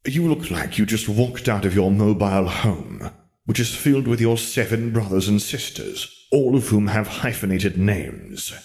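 slow, drawn-out disdainful jab; disgusted mockery. Wizard Lennon mocking Lily's dyed-hair look, slow and disgusted. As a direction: savour each insult slowly.

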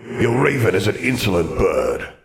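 echoing ghostly wizard voice; stately ghost with a hollow reverb; indignant ghost. Acted. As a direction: rebuke it as an affronted old phantom. Ghost wizard insulted by raven.

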